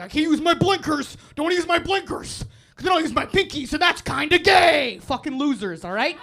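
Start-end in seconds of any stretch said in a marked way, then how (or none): 0.0-5.0 louder, whining imitation of a driver; mock truck driver. Comic imitating truck drivers refusing blinkers, mocking. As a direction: mimic a stubborn truck driver. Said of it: "everyone in a truck is like".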